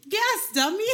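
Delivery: high laughing "yes, dummy"; laughing tease. Real, not acted. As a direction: tease her through a burst of laughter. Teasing friend, laughing.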